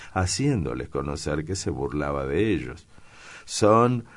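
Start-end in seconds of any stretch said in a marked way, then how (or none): 3.4-4.0 high, loud, drawn-out delight; amused exclamation. A narrator's reading. Daniel mocks the two young people, exclaiming in amusement. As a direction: exclaim it slowly, as if just done laughing. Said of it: "exclamó Daniel riéndose todavía".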